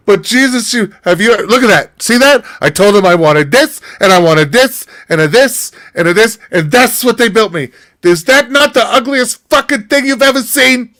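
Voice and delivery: put-on high, heavy Jewish-grandma accent, scornful. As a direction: complain like an old Jewish lady. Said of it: "in the heaviest Jewish accent I've ever fucking heard".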